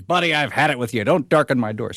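mock-indignant joke bartender; fed-up bartender. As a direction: lightly play a barkeep who has had enough. Joke's bartender throws them out.

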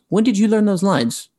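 high-pitched incredulous question; imitated demand. Actor imitating a co-star asking about lines, incredulous. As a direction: put the co-star's disbelief into it. Retelling an annoyed co-star's question.

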